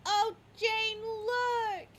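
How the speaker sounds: mock excited owner calling. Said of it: "your owners look over and say".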